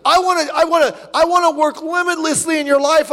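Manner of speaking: God announcing his plan. Retold or imitated. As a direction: proclaim it grandly. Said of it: "God says".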